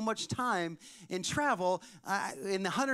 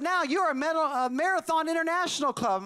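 high, mock-grand presenter voice; hammed-up club induction; ceremonial announcement; 6 semitones higher than usual. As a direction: imitate an official handing out another honour. Second medal announcement acted out.

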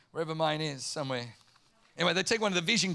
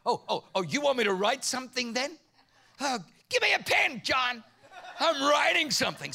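defiant comeback; 4 semitones higher than usual. Retold or imitated. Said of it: "I'm like".

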